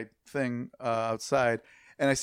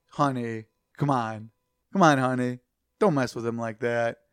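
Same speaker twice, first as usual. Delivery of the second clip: lower, offhand mild chiding; nonchalant; 3 semitones lower than usual. Retold or imitated. Husband to his wife licking a stranger's hand, nonchalant. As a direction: imitate a husband barely bothered. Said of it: "Just, like, so nonchalant".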